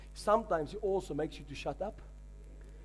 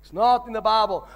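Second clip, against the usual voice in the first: emphatic; 2 semitones higher, 9 dB louder than usual. Shown as a demonstration. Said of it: "repeated for emphasis".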